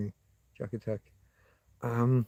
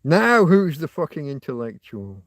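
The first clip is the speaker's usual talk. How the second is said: triumphant; 6 dB louder than usual. Real, not acted. Gloating at a chat critic.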